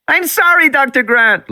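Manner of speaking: high loud wailing apology; wailing girl. A narrator's reading. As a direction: plead like a terrified little girl. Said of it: "Lex wailed".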